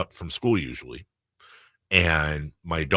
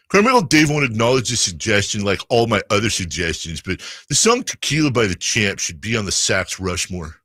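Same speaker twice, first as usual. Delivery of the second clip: whiny voice; 4 dB louder than usual. Pretend. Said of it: "I'm gonna read it in the whiny voice".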